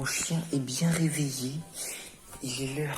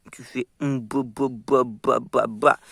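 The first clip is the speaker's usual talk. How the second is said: chewing noise demo; 11 dB louder, slower than usual. Shown as a demonstration. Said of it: "regarde, tu le prends comme ça".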